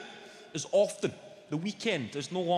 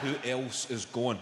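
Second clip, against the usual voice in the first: snide sneer; 6 semitones lower than usual. Retold or imitated. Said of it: "What a fucking snide inquiry".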